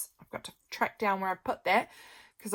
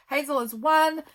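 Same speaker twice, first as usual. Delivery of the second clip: cutesy; 7 semitones higher, 4 dB louder than usual. Acted. Reading out birthday card.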